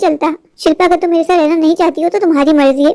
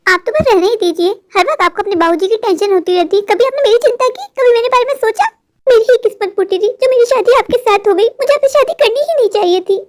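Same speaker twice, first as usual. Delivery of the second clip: angry wife. Acted. Wife angrily turning on her husband at her father's bedside. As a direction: lash out at the husband who lectured her.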